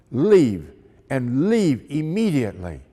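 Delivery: put-on curt order in a German accent. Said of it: "spoke to us with a German accent".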